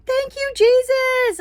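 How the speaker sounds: high, slow sing-song thanks; a soaring, slow "Thank you, Jesus"; joyful relief. Retold or imitated. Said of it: "and I'm like".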